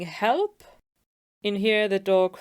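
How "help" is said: higher, half-hearted cry for help; mock scream. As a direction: lightly act out a man calling for help. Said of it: "we have the man screaming".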